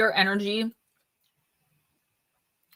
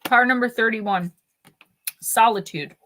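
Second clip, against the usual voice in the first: talking while crunching chips; words round a crunchy mouthful; 2 semitones higher than usual. Real, not acted. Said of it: "Sorry about the crunching".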